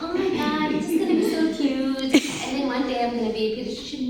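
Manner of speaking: singsong, airy daydreamer; mock dreamy girl. Mocking a student who dreams of an easy path. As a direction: play the naive girl who thinks cute is enough. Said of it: "be like".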